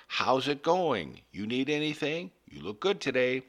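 friendly chat with plants. Retold or imitated. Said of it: "I would say things like".

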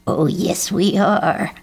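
lightly voiced cawing old crow; the crow taunts Jeb. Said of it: "cawed Grandfather Crow".

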